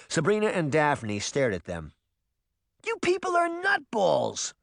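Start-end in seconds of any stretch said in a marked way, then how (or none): 2.8-4.5 crying out. A narrator's reading. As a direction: exclaim in disbelief, pitched high. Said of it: "Sabrina cried".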